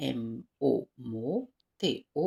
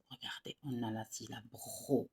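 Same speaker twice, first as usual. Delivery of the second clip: whisper; 7 dB quieter than usual. Real, not acted. Teacher whispers aside.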